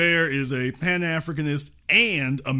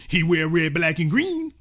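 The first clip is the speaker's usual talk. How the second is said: mock retort; 4 dB louder than usual. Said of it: "I really don't think he is".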